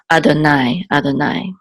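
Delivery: "Adonai" said twice, evenly and distinctly; pronunciation demo. Shown as a demonstration. Teacher showing what you would say, careful demo. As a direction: sound out "Adonai" as read in synagogue. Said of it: "you would say".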